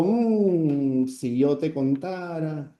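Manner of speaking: "si yo te contara" said slowly, left hanging; a teasing unfinished thought, slow; trailing off. Shown as a demonstration. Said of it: "Puntos suspensivos". ("si yo te contara" lento, con tono suspendido)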